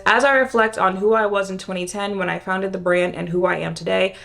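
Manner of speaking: stuffy nasal reading voice; reading aloud through a congested nose; blocked nose. Real, not acted. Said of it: "It says".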